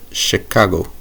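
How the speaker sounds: Chicago drawn out in a local accent. Shown as a demonstration. Gamer mimicking how locals say the city. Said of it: "I have to say it like that".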